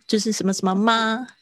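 normal talking voice

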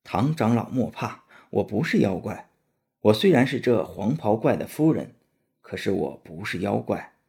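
reassuring princess. Acted. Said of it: "急忙解释道".

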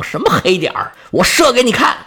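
rising, heated; fired-up challenge. Acted. Artemis, provoked by her brother, answers hotly. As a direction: blurt it out, bristling. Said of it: "气往上撞".

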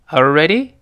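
"Are you ready" run together, rising on ready; casual linked question, up at the end; quick natural reading. Shown as a demonstration. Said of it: "读快之后".

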